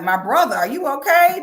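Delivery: concerned disbelief. Retold or imitated. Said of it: "I be like".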